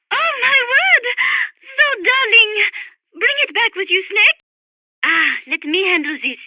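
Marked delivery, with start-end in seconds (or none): 0.1-2.6 high, drawn-out squeal of delight; delighted gushing. Acted. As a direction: coo over something adorable. Gushing over something cute.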